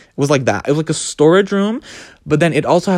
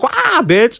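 mock scream; 8 semitones higher than usual. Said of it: "So I'm screaming too".

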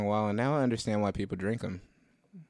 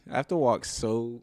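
voice crack; 2 semitones higher than usual. Real, not acted. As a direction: voice cracking mid-sentence. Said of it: "Did you hear my voice crack midway through that sentence".

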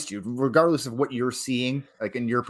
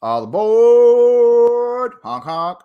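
goofy train conductor call, high and loud; slow, hammed-up all aboard; silly clown; 10 semitones higher, 11 dB louder, much slower than usual.

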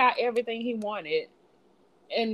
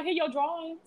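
lightly raised, timid little offer; high meek voice; 8 semitones higher, 7 dB quieter than usual. Retold or imitated. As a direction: hand it over sheepishly, voice up high. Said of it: "She was like".

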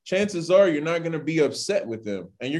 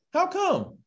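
rising question. Shown as a demonstration. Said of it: "It says".

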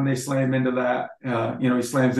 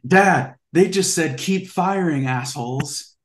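put-on kid telling dad; 5 semitones higher than usual. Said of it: "I turned to him and I said".

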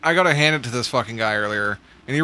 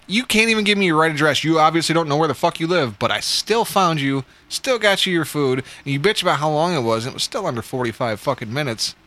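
higher-pitched, exasperated retold tirade; pissed-off retort; 4 semitones higher than usual. Driver to customer who complained about the wait, pissed off. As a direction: pile up the grievances indignantly. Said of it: "I was so pissed".

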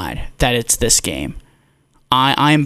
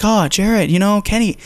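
higher-pitched mock version of a needling friend; imitating his co-host; 7 semitones higher than usual. Imitating co-host questioning him during a game, mock needling. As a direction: put on a pestering co-host, pitched up. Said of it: "He's like".

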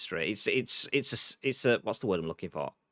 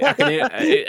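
high laughing through words; 7 dB louder than usual. Real, not acted. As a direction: laugh as you say it. Laughing at odd noise.

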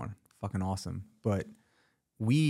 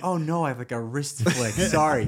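flustered apology; 5 semitones higher, 7 dB louder than usual. Retold or imitated. Acts out flustered movie character.

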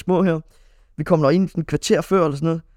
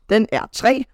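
coach calling; 6 semitones higher, slower than usual. Retold or imitated. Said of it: "så råber ham her Kim".

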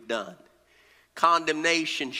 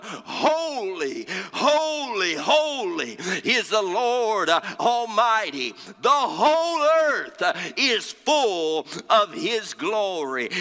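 seraphim calling to one another, preached; 4 semitones higher, 3 dB louder, slower than usual. Acted. Preacher voicing seraphim praising God, calling out. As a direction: proclaim it in swelling, drawn-out praise. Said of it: "they were calling one to another".

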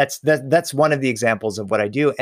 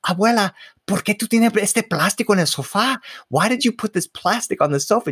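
put-on teen grandson voice; 8 semitones higher than usual. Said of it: "You're like".

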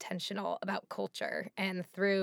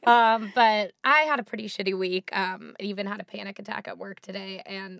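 hoarse laryngitis voice; 5 dB louder than usual. Real, not acted. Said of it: "even with this voice".

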